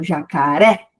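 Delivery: "jacaré" with the final RÉ drawn out; last syllable stressed. Shown as a demonstration. Teacher showing oxytone words, final RÉ of "jacaré" stressed. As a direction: lean on the RÉ ending of "jacaré". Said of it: "quando é a última mais forte".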